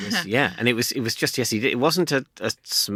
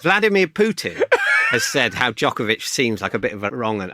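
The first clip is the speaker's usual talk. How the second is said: mock Russian accent. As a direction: put on a jokey Russian accent. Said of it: "that's in a Russian accent".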